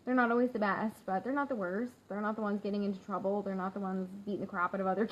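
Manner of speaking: ordinary talk, nothing marked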